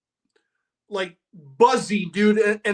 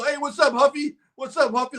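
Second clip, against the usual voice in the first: mocking taunt; 4 semitones higher than usual. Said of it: "Like a pejorative".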